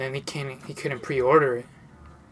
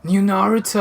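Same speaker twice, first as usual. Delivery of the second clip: raised, loud imitation of an outburst; higher, punchy mock shout; retold yell; 4 semitones higher, 5 dB louder than usual. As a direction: mimic someone blurting it out loudly. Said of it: "When he yelled out".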